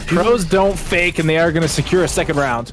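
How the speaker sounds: quick live match commentary; esports caster. Acted. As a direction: narrate the round as it unfolds. Live play-by-play call.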